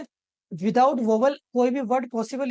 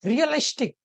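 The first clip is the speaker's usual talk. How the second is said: रियलिस्टिक with LIS pitched up before tik; stress on second-last syllable; 4 semitones higher than usual. Shown as a demonstration. Teacher demonstrating stress rule, रियलिस्टिक stressed on लिस. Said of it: "यहाँ पे जो लिस हैगा".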